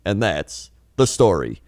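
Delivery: mock news anchor read; newscaster voice. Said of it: "It's not a newscaster voice".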